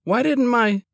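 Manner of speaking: mid-yawn sleepy words. Acted. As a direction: talk through a yawn. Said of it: "I yawned again".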